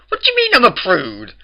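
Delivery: hissed, offended whisper; indignant whisper. A narrator's reading. Twilight whispers, offended at being called a prude. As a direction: hiss it back, scandalised.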